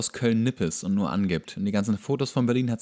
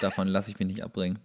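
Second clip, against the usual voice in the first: laughing; 3 semitones lower, 5 dB quieter, faster than usual. Real, not acted. Laughs while insisting.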